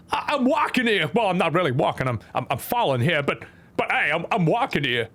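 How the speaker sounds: lightly voiced halting Walken stammer; Christopher Walken. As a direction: falter through it in a put-on halting voice. Walken impression as character dies.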